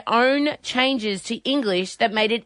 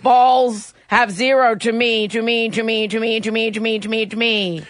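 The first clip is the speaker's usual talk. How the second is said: robot voice. Pretend. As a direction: read it like a glitching chatbot. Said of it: "you have to do a robot voice".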